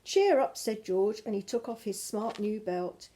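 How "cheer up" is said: cheery call. Acted. George comforting the dog.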